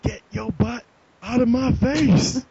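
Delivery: loud, high, drawn-out sitcom yell; yelled catchphrase. Acted. Friend giving the made-up sitcom star his catchphrase, yelled. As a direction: belt it out slowly like a cheesy catchphrase. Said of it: "I don't think I could yell it like that".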